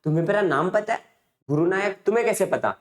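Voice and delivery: mildly acted astonished questions; retold shock. Stranger hears his own name from astrologer, mildly shocked. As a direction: ask in disbelief, a touch of shock. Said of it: "stranger person एकदम shock".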